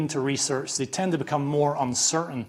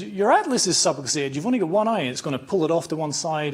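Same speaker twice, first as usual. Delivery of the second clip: put-on San Diego accent; 3 semitones higher, 3 dB louder than usual. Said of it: "a San Diego accent".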